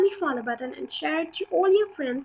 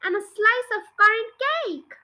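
scolding yell; 6 semitones higher than usual. Acted. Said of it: "Grandma yelled".

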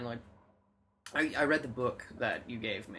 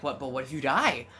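panicky anxiety voice; 5 dB louder than usual. Retold or imitated. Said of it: "your anxiety is like".

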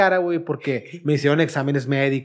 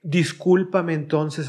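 slow, drawn-out sarcastic sorry; sarcastic apology; much slower than usual. Retold or imitated. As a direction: stretch it out with mock regret. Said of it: "estaba haciendo sarcástica". (disculpa sarcástica y lenta)

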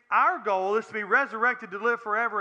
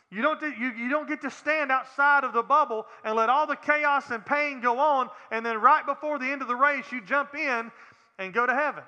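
raised, driving sermon delivery; impassioned preaching; 2 semitones higher than usual. Real, not acted. Preacher warning believers there is no rejoicing without suffering, impassioned preaching. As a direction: press the warning home to the congregation.

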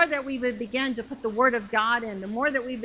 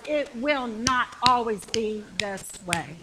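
slow, emphatic declaration with controlled anger; righteous anger; slower than usual. Acted. Believer answering talk of lifelong poverty, righteously angry. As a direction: declare it slowly, word by word. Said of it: "righteous anger that rises up".

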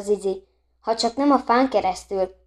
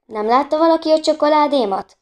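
higher-pitched anxious query to the room; calling out; 6 semitones higher, 3 dB louder than usual. A narrator's reading. Anna asking the others about her chocolate, calling out. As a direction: call out for a lost thing.

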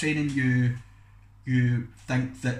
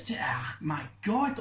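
whispered dread; hushed whisper at the memory; 3 semitones higher, slower than usual. Real, not acted. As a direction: breathe it out unvoiced. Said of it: "thinking about it now".

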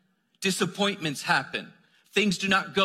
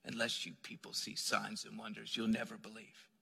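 stern reading; 7 semitones lower, 13 dB quieter than usual. Retold or imitated. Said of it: "that's how I've always read that text".

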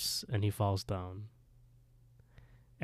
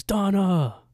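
high, loud drawn-out cry; retold scream; 10 semitones higher, 7 dB louder than usual. Retelling Johnny screaming for his girlfriend, high and loud. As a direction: cry out her name, imitating a scream. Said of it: "And he screams".

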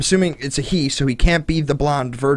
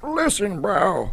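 frat bro; 5 semitones higher, much slower than usual. Retold or imitated. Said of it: "the emphatic frat boy".

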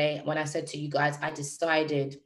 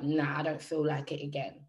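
flat, dead; 3 semitones lower, 6 dB quieter than usual. Retold or imitated. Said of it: "he sounded dead, like, flat".

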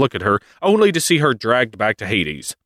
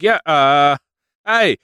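much higher, slow, laid-back god voice; casual Zeus; 9 semitones higher than usual. Retold or imitated. Retelling the myth, Zeus shrugging at Demeter in a lazy high voice. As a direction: drawl it like an easygoing boss. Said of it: "Zeus is like".

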